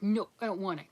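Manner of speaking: mock childish whine. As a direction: refuse like a grumpy toddler. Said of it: "I put on the childish voice".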